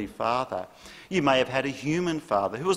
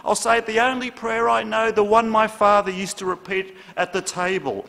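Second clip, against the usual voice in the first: panicked rush; 10 semitones higher, 5 dB louder than usual. Retold or imitated. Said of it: "panted John".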